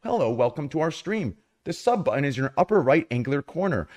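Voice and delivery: polished announcement voice, lightly done; flight attendant. Pretend. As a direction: read it like a cabin safety briefing. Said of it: "you're talking like a flight attendant".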